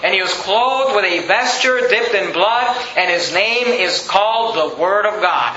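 measured, solemn reading of the verse. Acted. Preacher reads scripture aloud.

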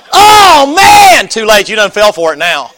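high, loud mocking shout; jeering yell up into the tree; gloating squirrel hunter. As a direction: crow it at the trapped squirrel. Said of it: "and it's like".

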